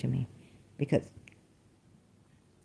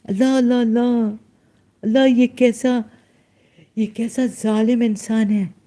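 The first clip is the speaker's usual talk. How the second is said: mock lament; 5 semitones higher, 5 dB louder, much faster than usual. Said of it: "दिखा रही हूँ कि".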